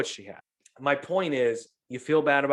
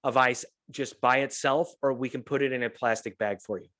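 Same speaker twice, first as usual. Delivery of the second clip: calm. Retold or imitated. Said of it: "that's how calm she was".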